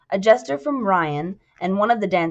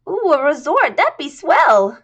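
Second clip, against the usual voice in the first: put-on squeaky chorus girl; 8 semitones higher, 6 dB louder than usual. Jasmine thrilled about the resort, squeaky. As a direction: coo with delight.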